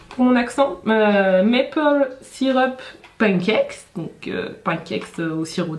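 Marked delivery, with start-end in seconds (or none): 1.4-3.9 slow careful English accent on the brand name. Shown as a demonstration. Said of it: "excusez-moi pour mon accent". 4.0-5.8 whispered repeat of the word pancakes, much softer; whispered aside. Real, not acted. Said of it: "excusez-moi pour mon accent".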